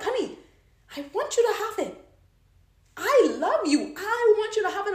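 high, earnest declaration of love; loving husband. Acted. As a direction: plead tenderly with a sweetheart. Loving husband voiced to wife.

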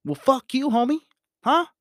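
high, loud mock outburst at a friend; acted angry friend. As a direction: snap back, hammed-up hurt and mad. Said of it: "I'm just acting".

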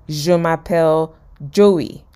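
measured French demonstration; teacher's model phrase. Acted. Phoebe giving Joey his first French phrase, measured. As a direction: say it slowly for a learner to copy. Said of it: "she would say a phrase like".

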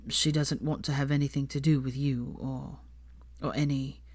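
a touch of sighing heaviness; heavy sigh. A narrator's reading. Draco reluctantly repeats his mother's words, sighing. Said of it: "he sighed heavily".

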